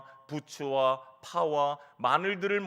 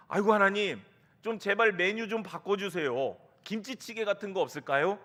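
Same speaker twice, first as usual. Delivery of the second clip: raised, pleading complaint to God; hammed-up plea, a little higher; mock cry out; 3 semitones higher, 4 dB louder than usual. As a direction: beg in playful exasperation, starting loud. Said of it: "막 이렇게 소리쳤을지도 모릅니다".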